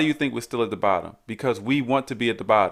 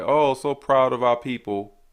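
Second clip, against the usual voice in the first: sarcastic; slower than usual. Retold or imitated. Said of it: "I'll use sarcasm like".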